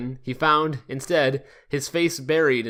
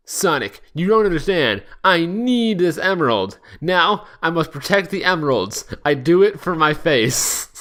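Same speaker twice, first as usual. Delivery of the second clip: frantic; 3 semitones higher than usual. Acted. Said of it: "Knuckles was frantic".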